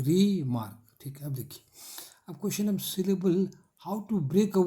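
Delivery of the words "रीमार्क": "रीमार्क" lightly divided as री, मार्क; two-beat demonstration of "रीमार्क"; syllable division. Shown as a demonstration. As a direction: say "रीमार्क" with a break after री. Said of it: "syllable division का sign".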